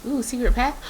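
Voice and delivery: bright, thrilled find; excited discovery. Real, not acted. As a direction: call out the secret path. Spots hidden path excitedly.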